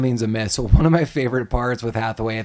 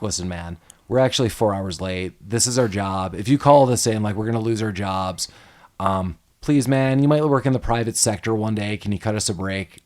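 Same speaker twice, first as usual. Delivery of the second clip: pleading; 3 semitones lower than usual. Retold or imitated. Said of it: "like, has a change".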